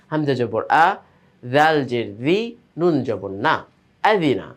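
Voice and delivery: clipped teacher's drill, short vowels kept brisk; quick harakat reading. Shown as a demonstration. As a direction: spell each letter with its harakat short and quick, then blend into আযিনা. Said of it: "এই জন্য তাড়াতাড়ি করে আমরা উচ্চারণ করছি".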